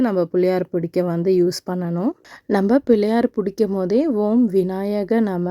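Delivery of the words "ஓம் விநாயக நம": slow, drawn-out invocation; unhurried devotional phrase; mantra recitation. Shown as a demonstration. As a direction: recite it slowly as a short prayer to Vinayaka. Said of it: "அப்படின்னு சொல்லிட்டு".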